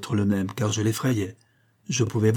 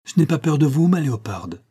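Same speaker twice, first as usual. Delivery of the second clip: higher and louder, daring her; bold defiance; 5 semitones higher, 3 dB louder than usual. Acted. Moore telling Shirley he fears her not, loudly. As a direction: throw the challenge at her.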